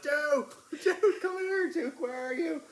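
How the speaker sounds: high, loud desperate shouts into the dark; loud high calls across a field; calling the dog. Retold or imitated. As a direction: yell for the lost dog. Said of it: "I'm like".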